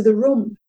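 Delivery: "room" said with a short vowel, like "rum"; husband's posh pronunciation. Retold or imitated. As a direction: imitate upper-class "room" as clipped "rum". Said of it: "very upper middle class".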